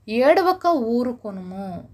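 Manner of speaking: slow, drawn-out scriptural command; deliberate, emphatic decree; divine command. Acted. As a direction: stretch each word like a solemn order. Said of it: "యెహోవా ఆజ్ఞ ఇస్తున్నాడండి".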